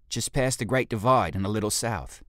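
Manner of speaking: cheeky, boastful reply to his leader; cheeky ape guard. Acted. Fekis answers.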